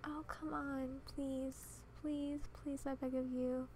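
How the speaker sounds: quiet, drawn-out begging; soft pleading. Real, not acted. Gamer begging her Sim to cooperate, soft pleading. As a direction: plead under your breath.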